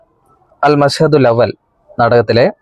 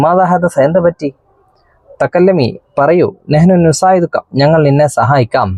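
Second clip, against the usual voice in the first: slightly higher, lightly voiced policewoman; policewoman's questions; 3 semitones higher than usual. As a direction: coax her kindly like a policewoman. Policewoman asks the girl. (പോലീസുകാരി പെൺകുട്ടിയോട് ചോദിക്കുന്നു, അല്പം ഉയർന്ന സ്വരം)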